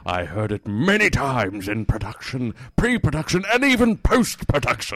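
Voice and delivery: lightly hammed-up actor, pitch climbing phrase by phrase; Ian McKellen. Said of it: "My name is Ian McKellen".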